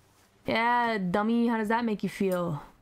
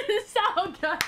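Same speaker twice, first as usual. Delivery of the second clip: slow savouring; 7 semitones higher than usual. Pretend. Echoing character, savouring dessert.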